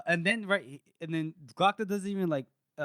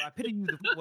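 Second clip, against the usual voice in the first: higher-pitched, light catchphrase impression; Mister T; 4 semitones higher, faster than usual. Podcaster corrects his own catchphrase, light tough-guy impression. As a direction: toss off a mock tough-guy taunt. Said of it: "He just goes Mister T on him".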